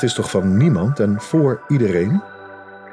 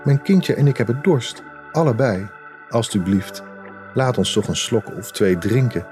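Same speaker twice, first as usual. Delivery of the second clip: pleading; 3 semitones higher than usual. Acted. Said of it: "ze smeekte de wanhoop nabij".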